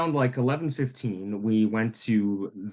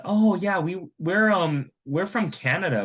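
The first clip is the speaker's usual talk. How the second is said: polite, chatty answer pitched up; courteous, higher-pitched retold reply; 7 semitones higher than usual. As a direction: imitate yourself answering a stranger nicely. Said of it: "we very politely answered".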